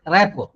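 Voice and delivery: "repo" ending on an open o; silent final letters. Shown as a demonstration. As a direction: say "repo" for rapport, no r or t at the end. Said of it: "both the letters are silent".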